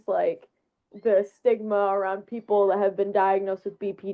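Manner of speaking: into a pillow. Real, not acted. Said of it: "It sounds like you're speaking through a pillow".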